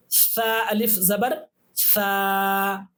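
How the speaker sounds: ता अलिफ ज़बर ता, each part spaced and slow; slow spelling drill. Shown as a demonstration. Teacher spelling letters for practice, slow and clear. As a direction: spell it out slowly for learners. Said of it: "इसकी practice कर लेते हैं".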